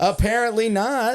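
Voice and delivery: sulky retort. Retold or imitated. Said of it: "I was like".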